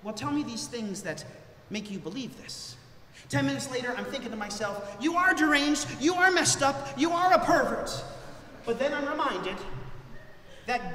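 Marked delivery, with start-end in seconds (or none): 0.0-2.8 acting a calm pastoral counsellor. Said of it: "very calmly I say". 5.0-7.9 higher, louder, hammering each accusation; mock blunt verdict. Mock inner verdict on parishioner.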